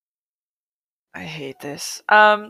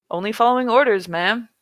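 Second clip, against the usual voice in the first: lightly done California surfer, pitched up; slightly higher California surfer dude, lightly put on; 4 semitones higher than usual. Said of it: "use my California surfer voice".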